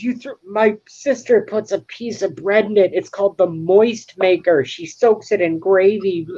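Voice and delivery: high, indignant sitcom whine; high accusing sitcom voice; Ross quoting. Retold or imitated. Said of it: "He goes".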